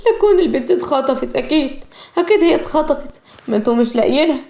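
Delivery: mildly sobbing mother's fear; crying hard. Acted. Mother fearing her daughter was kidnapped, tearful. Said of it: "فاطمة بعياط شديد".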